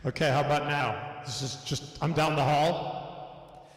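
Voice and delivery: deep echo effect. Real, not acted. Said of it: "that's even deeper in the cave".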